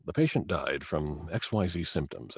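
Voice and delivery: lightly voiced evil doctor, register dropped. Shown as a demonstration. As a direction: drop down slightly, softly, for an evil doctor. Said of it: "kind of dropped down into a lower register".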